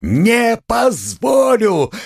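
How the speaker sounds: enraged shout, drawn out; shout again. Acted. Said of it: "крикнул было другой раз".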